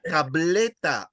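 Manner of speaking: slow "tableta", middle syllable stressed; stress on BLE. Shown as a demonstration. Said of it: "you stress the second last syllable".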